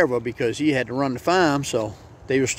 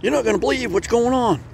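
much higher, squeaky small-mouse voice; a panicked tiny mouse begging for help, pitched way up; frantic little mouse; 10 semitones higher than usual. Acted. Mouse begs the chicken for help, high and squeaky. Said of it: "He ran up to the chicken".

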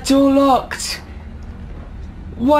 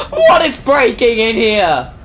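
alarmed gasp; 3 dB louder than usual. Real, not acted. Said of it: "Freaking out".

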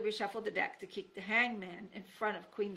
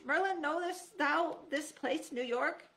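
higher, slow royal query; king's voice; 8 semitones higher, 4 dB louder, slower than usual. Acted. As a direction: ask the wizard like a puzzled king. King Arthur asking Merlin.

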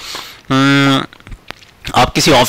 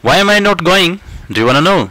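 teasing retort; 4 semitones higher, much slower than usual. Pretend. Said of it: "ऐसे".

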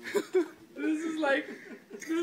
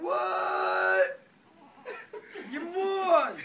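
surprised; 3 semitones higher, much slower than usual. Real, not acted. Reacting to prank reveal.

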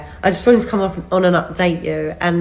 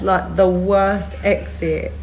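laughing; slower than usual. Real, not acted. Laughing at the bad trip home.

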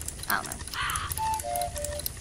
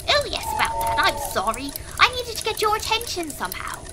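put-on very old man; 3 semitones higher than usual. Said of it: "So with that voice done".

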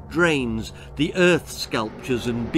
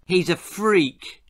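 higher, slow, drawn-out insult; cruel jeer; 5 semitones higher, slower than usual. Acted. Ginger mocking the old man, cruelly. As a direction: spit it out as a bully. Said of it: "Ginger continued cruelly".

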